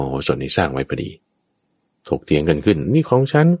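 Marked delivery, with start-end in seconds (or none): 2.9-3.5 indignant claim. Acted. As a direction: insist the cow is yours, outraged. Cow owner and thief quarrel.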